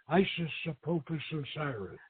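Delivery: barely voiced, like a secret prayer; whispered. A narrator's reading. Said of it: "as she whispered".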